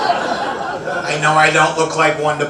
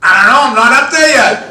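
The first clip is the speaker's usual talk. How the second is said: exasperated husband; 6 semitones higher, 7 dB louder, faster than usual. Retold or imitated. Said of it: "I go".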